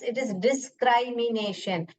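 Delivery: discrimination slowly said as "dis-cry-mination"; wrong long-i "dis-CRY-mination"; child's mispronunciation. Acted. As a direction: make the first i in discrimination a long "eye". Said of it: "तो बच्चा बोलेगा".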